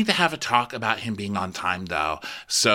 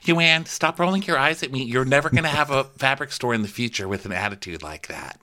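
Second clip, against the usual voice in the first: scolding boss; 5 semitones higher than usual. Retold or imitated. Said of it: "So then Jenny's like".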